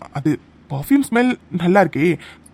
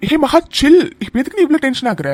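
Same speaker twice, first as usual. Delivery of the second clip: raised voice; 5 semitones higher, 4 dB louder than usual. Acted. Man calms angry coworker.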